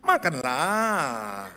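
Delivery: very slow, lilting, almost crying makanlah; singsong Karo accent. Retold or imitated. Preacher voicing a Karo speaker, slow singsong. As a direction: sing it out slowly. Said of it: "Betul nggak?".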